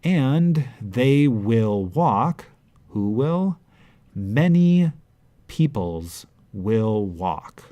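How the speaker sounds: slow, lifted with the weight on Many; emphatic translation. Shown as a demonstration. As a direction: build it like a rhetorical question and answer. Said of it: "translation read out".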